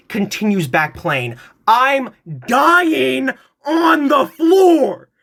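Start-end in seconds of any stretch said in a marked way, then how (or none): 1.7-5.1 high, slow, laughing through the words; laughing hard. Real, not acted. Narrator cracking up retelling the cousin's insult, laughing. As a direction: wheeze it out while cracking up.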